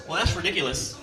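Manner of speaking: a hint of a stuffy polite gentleman; white people words. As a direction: sound stiffly proper and nervous. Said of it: "a lot of white people words".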